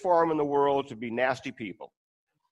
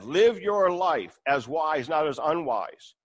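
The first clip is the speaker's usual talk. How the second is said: slow emphatic verse; slower than usual. Shown as a demonstration. Quotes verse slowly, emphatically.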